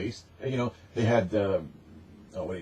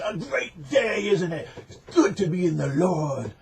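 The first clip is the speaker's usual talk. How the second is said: mock cheery believer; 7 semitones higher than usual. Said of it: "and he says".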